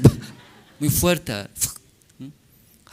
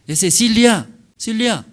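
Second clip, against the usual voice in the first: light coaxing mother; 8 semitones higher, 4 dB louder than usual. Acted. Mother teaching baby a name.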